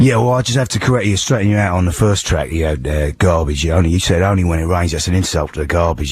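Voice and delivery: hoarse London hard-man voice; Ray Winstone impression. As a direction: play a tough geezer with a sore throat. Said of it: "I'm Ray Winston".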